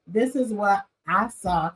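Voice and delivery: demonstrating straightforward talk; plain-spoken example. Shown as a demonstration. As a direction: model a measured, direct statement. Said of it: "You don't talk like this, say".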